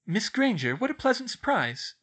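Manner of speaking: smiling welcome. A narrator's reading. Professor welcomes a student at the door, smiling. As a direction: greet a pupil with audible pleasure.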